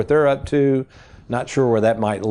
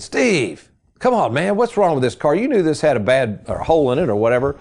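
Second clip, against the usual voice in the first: imitating dad's exasperated protest, pitched higher; mock complaint; 4 semitones higher than usual. Dad confronts the salesman about the hole in the floor, mock exasperation.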